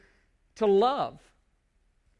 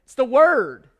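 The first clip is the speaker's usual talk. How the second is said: emphatic preaching shout; 3 semitones higher, 8 dB louder than usual. Real, not acted. Preacher answers his own question.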